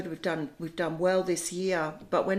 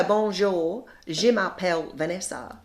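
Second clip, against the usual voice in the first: French said with Australian vowels; Australian accent. Shown as a demonstration. Showing how learners' French sounds, Australian accent. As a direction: introduce yourself in Aussie-accented French. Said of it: "with an Australian accent".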